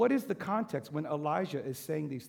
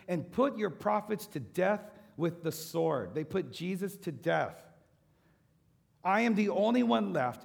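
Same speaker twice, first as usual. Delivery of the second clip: louder and higher, every phrase pressed; impassioned accusation; 5 semitones higher, 5 dB louder than usual. Acted. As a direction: hurl the charge against Israel. Preacher voicing Elijah's accusation.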